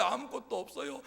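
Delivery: 웃음 섞인 투덜거림. Acted. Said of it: "라고 투덜거리는 모세의".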